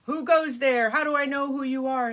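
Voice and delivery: loud booming who goes there; dragon challenge. Acted. Dragon challenging strangers at the drawbridge, loud. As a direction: bellow it like a gate guard. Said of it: "the dragon says".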